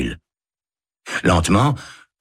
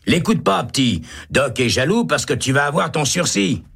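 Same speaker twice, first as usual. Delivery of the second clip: high comforting voice; reassuring; 10 semitones higher than usual. A narrator's reading. Holt reassuring young Baca, high and kind. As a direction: dismiss Doc, soothe the boy.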